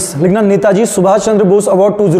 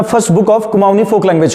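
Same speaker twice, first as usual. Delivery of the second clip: dictating; much slower than usual. Shown as a demonstration. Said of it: "लिखना".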